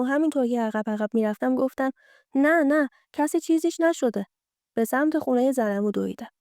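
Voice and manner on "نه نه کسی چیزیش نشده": flustered quick denial, higher pitched; startled denial. Acted. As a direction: deny it hastily, caught off guard and backing away. Startled Goli backs away denying.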